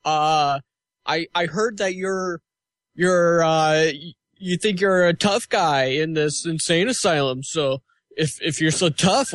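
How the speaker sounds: lightly voiced ghost hunter calling out a spirit; a hint of a tough ghost-hunter challenge, with halting pauses; Ghost Adventures host. Ghost hunter taunting the ghost in the asylum, lightly imitated challenge. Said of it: "That's my Ghost Adventures impersonation".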